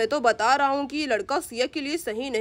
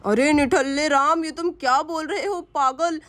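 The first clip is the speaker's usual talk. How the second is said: scolding father; 5 semitones lower than usual. Acted. Father scolding Ram to take Siya to hospital, lower scolding. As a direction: scold the useless boy.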